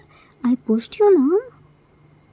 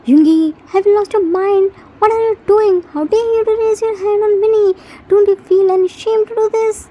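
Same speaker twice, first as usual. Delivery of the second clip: angry scolding; 2 semitones higher, 3 dB louder than usual. Acted. Brother scolds Yoongi.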